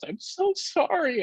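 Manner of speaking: a hint of crying mother; mimicked apology. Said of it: "she says".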